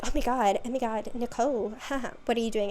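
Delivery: imitating an awkward laugh when caught; lightly acted nervous cover-up; mock flustered.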